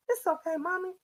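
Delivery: gentle imitated reassurance; calm, pleasant. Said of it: "said with a pleasant voice".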